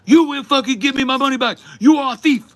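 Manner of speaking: put-on very high, loud screaming caricature of an Asian accent; hammed-up shrieking accusation in a put-on Asian accent; mock thick Asian accent. Barista imitating an angry customer, screaming in a thick Asian accent. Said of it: "with a very thick accent".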